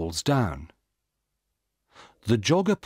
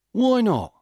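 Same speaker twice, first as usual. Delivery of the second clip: much higher, louder, indignant why not; angry retort; 13 semitones higher, 5 dB louder than usual. A narrator's reading. Jogger snaps back at the policeman, high indignant retort. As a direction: fire the question back, offended. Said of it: "Peter asks angrily".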